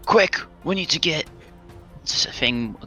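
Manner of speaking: hurried order to the tractor driver; urgent in-character. Acted. Player urging the tractor driver to move, urgent. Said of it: "and be like".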